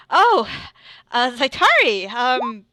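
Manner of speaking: stammering, lifted and rushed apologies; flustered Tegan. Acted. Tegan flustered in front of Zaitari, stammering apology. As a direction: trip over every word. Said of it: "He's like".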